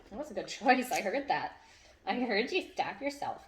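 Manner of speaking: high, bright dog praise; excited praise. Real, not acted.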